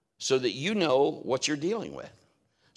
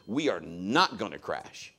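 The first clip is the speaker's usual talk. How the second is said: calm assurance; 4 semitones lower, slower than usual. Retold or imitated. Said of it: "I'm just talking like I'm talking to you".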